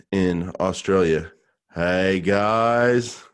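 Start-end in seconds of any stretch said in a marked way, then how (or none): 1.7-3.2 put-on lightly done Aussie bloke's greeting in Australian accent; a hint of an Australian man saying hi, Australian accent; Australian male impression. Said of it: "That was an Australian male impression".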